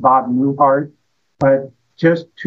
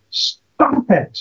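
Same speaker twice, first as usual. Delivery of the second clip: mock yell; 6 semitones higher than usual. Psychiatrist leans over the desk at his patient, mock yell. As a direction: imitate a shout on a higher pitch. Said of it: "he yells at the top".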